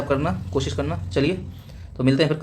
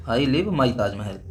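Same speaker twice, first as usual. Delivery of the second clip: slow example sentence; much slower than usual. Shown as a demonstration. Teacher dictating an example sentence to the class, slowly. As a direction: read out slowly, word by word. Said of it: "जैसे एक sentence मैं देता हूँ".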